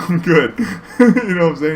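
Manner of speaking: laughing through the words. Real, not acted. Driver laughing about refusing the pills, real laughter. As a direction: crack up while saying it.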